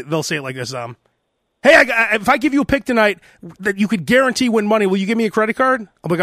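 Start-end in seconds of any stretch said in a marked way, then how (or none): 1.6-5.8 rushed, rattled-off pitch; fast sales spiel. Retold or imitated. Caller imitating the fast telemarketer spiel, rushed. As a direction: rattle it off like a pushy phone salesman. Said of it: "they go real fast".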